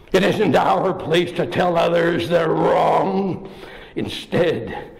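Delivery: a hint of a gruff bear apologizing; deep grisly bear. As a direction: speak as a sorry bear, slowly. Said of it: "in a deep, grisly voice".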